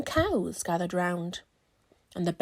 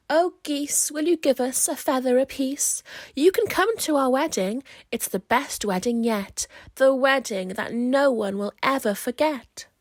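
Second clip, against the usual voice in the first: calling out; 3 semitones higher, 6 dB louder than usual. Acted. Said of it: "scarecrows call to the geese".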